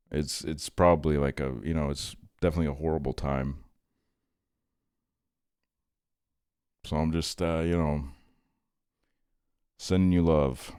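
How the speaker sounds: softly spoken, gentle condolence; sincere sympathy. Real, not acted. Streamer comforting a chatter in a horrible time, soft and sincere. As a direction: offer heartfelt support, quietly and unhurried. Offering condolences to a chat member.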